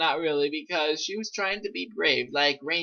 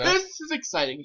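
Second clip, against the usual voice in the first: hammy mock enthusiasm; 11 semitones higher, 3 dB quieter, faster than usual. Mock reading, high voice.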